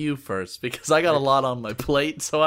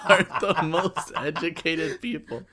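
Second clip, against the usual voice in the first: mock praise; 4 semitones higher, 3 dB louder than usual. Real, not acted. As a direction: fake compliment with a laugh. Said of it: "taking a jab at the Walgreens employees".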